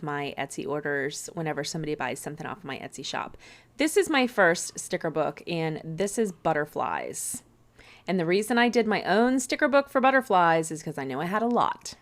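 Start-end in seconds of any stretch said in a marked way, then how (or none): 3.8-12.0 muffled by a covered mic; muffled, mic half covered; hand over mouth. Real, not acted. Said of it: "I had my hand on the speaker".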